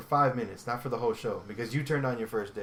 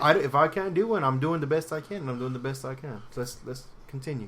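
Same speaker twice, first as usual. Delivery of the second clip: put-on British accent, loud then settling; protest, then calm down, in amateur British; dodgy British accent; 4 dB louder than usual. Podcaster insisting it is their best, put-on British accent. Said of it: "This is my British accent".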